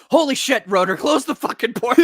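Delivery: high, loud mock panic; panicked shout. Acting out a comic character ordering Rotor, panicked shouting. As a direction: yell it as a frantic comic order.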